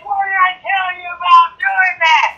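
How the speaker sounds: a hint of a scolding grandma, pitched high; mock-scold the grandkids; grandma scolding the hurt kids, lightly voiced. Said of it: "Their, their grandma's talking to him".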